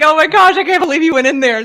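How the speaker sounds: high, loud gasping disbelief; retold amazement. Friend hears she went back in, retold amazement. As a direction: act out an astonished friend. Acts out Anthony's astonished reaction.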